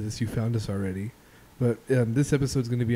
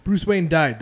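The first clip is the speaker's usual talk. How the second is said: louder, higher fake bombshell; mock dramatic announcement; 4 semitones higher, 6 dB louder, slower than usual. Podcast host faking a spoiler to his co-hosts, mock dramatic announcement. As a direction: blurt it out like shocking news.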